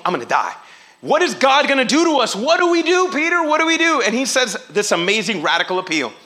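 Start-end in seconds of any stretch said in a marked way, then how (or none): 0.0-4.0 desperate panic. Retold or imitated. Crowd begging Peter what to do, high panicked pleading. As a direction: beg Peter for an answer. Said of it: "came from desperation".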